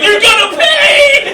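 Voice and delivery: high shrieking sob-yell; furious tearful shriek; Ralphie rage cry. Acted. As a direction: scream it like a kid losing it. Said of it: "Ralphie from A Christmas Story".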